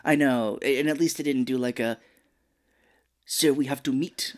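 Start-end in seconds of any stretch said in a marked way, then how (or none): 3.3-4.3 attempted Lance Reddick voice. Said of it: "I'm trying to do his accent".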